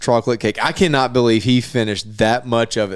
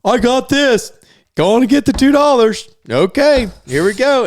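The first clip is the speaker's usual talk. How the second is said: put-on higher, quick bragging kid voice; cocky kid; 10 semitones higher, 4 dB louder than usual. Boy bragging to the family mid-cake, higher cocky voice. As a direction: brag like a kid sure of winning. Lance boasting while eating cake.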